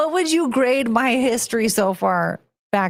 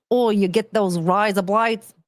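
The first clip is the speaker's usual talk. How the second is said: clumsy mock-Aussie line; bad Australian accent. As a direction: fake an Australian accent, badly. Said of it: "That was really bad".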